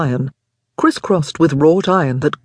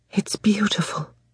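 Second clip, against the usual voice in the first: barely audible, very quiet whisper; 4 semitones higher, 7 dB quieter than usual. Helen, among onlookers at the cage, whispered very quietly. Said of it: "whispered Helen, so quietly that no one could hear her".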